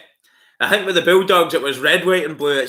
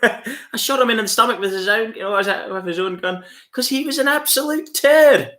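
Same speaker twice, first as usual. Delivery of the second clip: much higher, sneering gangster line; high mocking gangster voice, punching turd; Chopper Read impression; 9 semitones higher than usual. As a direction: play the tough guy, sneer it out. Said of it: "I used to try and do the Chopper Read stuff".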